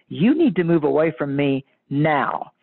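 slow, insistent warning in a stronger voice. Retold or imitated. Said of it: "when I raised my voice".

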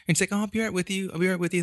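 high, breezy mock server voice; brushing-off server. Mimicking the waitress who ignored them, airy and high. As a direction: toss it off like a bored server. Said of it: "she was like".

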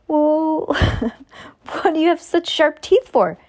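high, loudish questioning voice breaking into a laugh; frightened boy. A narrator's reading. The boy questions the creature's teeth, high-voiced, reader giggling.

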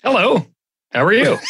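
lightly played news anchor greeting; podcast voice. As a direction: put on a mild radio voice. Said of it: "Why did you come in like that".

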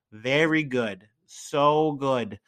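lightly voiced presidential impression; Donald Trump. Podcaster raving about a restaurant meal, light Trump impression. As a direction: drop into a slight, emphatic politician's cadence. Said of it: "getting my Trump accent out".

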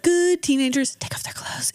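hushed, muffled whisper as if through a hand; muffled creepy whisper behind a hand. Retold or imitated. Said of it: "in a muffled voice".

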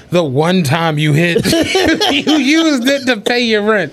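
laughing through a mock-exasperated comeback; laughing retort. Teasing his friend about scratch-offs, laughing. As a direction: chuckle while pointing out the flaw. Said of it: "And I'm like".

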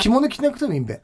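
Akita dialect. Pretend. Classmate at the summer ceremony, Akita dialect. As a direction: make the point in Akita dialect. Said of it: "ちょっと秋田弁で話してみたい".

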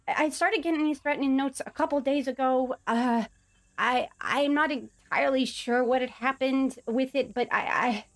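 a hint of a worried little goblin; nervous goblin. Plays Baha the goblin.

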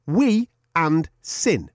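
"we and sin" slow, drawn out in Adam's accent; read in Adam's accent. Shown as a demonstration. Reading a listener's review aloud, mimicking Adam's accent. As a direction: stretch out "we and sin" the way Adam says it, in his accent. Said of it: "please read this in his accent".

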